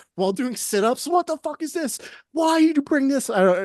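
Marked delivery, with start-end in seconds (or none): 1.1-3.3 put-on drill sergeant screaming, pitched higher. Retelling a drill sergeant's angry questions: imitating a drill sergeant screaming. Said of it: "screaming at me".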